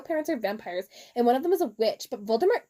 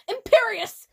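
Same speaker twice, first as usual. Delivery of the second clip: high, loud dramatic incantation; hammed-up spell shout; 10 semitones higher, 6 dB louder than usual. A narrator's reading. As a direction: cast it with mock fury. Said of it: "Voldemort shouted".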